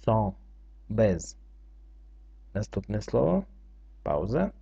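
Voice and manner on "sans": "sans" without the final s; silent final s. Shown as a demonstration. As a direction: leave the last s of "sans" unspoken. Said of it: "С на кінці не читається".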